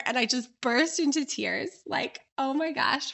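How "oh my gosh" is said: higher, retold panic; mock freak-out. Guest bursting into tears at the table, mock freak-out. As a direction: gasp it out in mild mock panic. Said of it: "freaking out".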